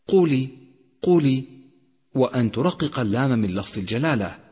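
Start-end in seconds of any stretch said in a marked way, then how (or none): 0.1-1.4 قل with the L vowel made clear; clear kasra demo. Shown as a demonstration. Teacher showing students the kasra. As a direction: sound out the i after قل. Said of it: "أن توضح كسرة اللام في كلمة".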